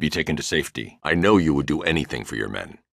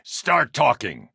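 high, slow, raised shout; shouted demand; 9 semitones higher, slower than usual. Acted. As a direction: force the words out at him. Interrogation line, shouted take.

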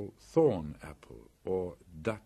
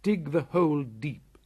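put-on young boy voice; 6 semitones higher, 5 dB louder than usual. Mowgli gives orders.

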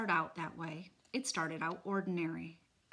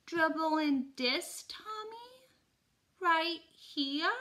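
high, slow incredulous question; disbelieving; 10 semitones higher, 5 dB louder, slower than usual. Acted. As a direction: ask in stunned disbelief. Boy playing along, disbelieving.

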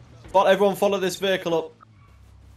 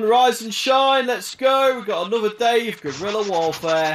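wake-up call; 4 semitones higher, 3 dB louder, slower than usual. Pretend. Waking the squad in the morning.

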